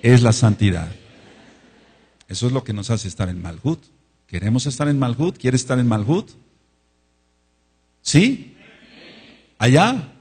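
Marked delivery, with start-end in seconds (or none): 0.0-0.9 emphatic repeat-after-me. Shown as a demonstration. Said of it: "Repite conmigo". 8.0-10.1 calling out. Real, not acted. Preacher calling to congregation.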